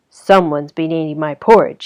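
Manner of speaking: a lightly growled Daddy Bear line. Acted. Daddy Bear discovers his porridge eaten, mild growl. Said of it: "he growled".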